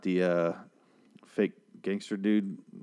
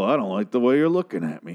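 louder, swaggering redo of the line; a mild mock Negan bellow; boisterous villain; 4 dB louder than usual. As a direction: play it big and cocky like a boisterous bully. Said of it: "he's very, uh, boisterous".

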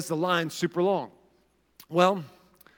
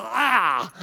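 drawn-out mock whine; imitated whiny cry; annoying college-girl noise; 3 semitones higher than usual. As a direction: stretch out a whiny groan. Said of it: "they're just talking like this".

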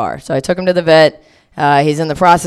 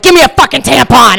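high, loud desperate demand; urgent demand; 8 semitones higher, 6 dB louder than usual. Retold or imitated. Her begging a stranger for a tampon, loud high urgency. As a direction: bark it at the stranger. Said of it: "I was like".

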